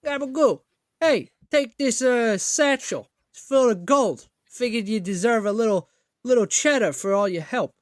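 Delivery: Boston NPC handing over gold, overplayed; overplayed Boston accent. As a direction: overdo the Boston for the quest giver. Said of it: "I'm really overplaying the Boston accent".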